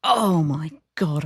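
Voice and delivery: slow, drawn-out lament; exasperated regret. Acted. Replaying an argument in the shower, exasperated regret. Acting regret over missed reply.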